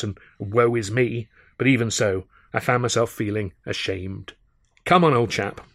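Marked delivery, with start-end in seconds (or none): 4.8-5.7 kindly. Acted. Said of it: "I said more kindly".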